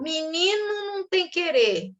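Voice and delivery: slow, firm, final; stern aunt. Retold or imitated. Aunt shutting down a whining boy, slow and stern. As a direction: lay down the rule slowly. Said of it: "uma tia que falava isso".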